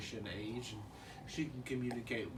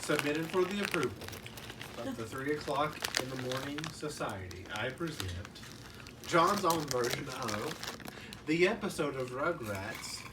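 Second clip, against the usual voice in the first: mock announcer intro. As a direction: announce it like a spooky anthology host. Mock Twilight Zone intro narration.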